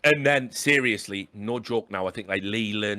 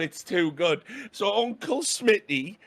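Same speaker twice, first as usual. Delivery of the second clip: ordinary delivery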